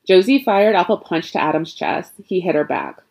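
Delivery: ordinary delivery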